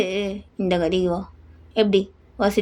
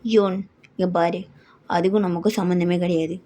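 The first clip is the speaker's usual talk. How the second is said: lower, hushed fatherly voice; a lightly voiced father brushing it off; 3 semitones lower than usual. (தாழ்ந்த குரலில் அப்பா)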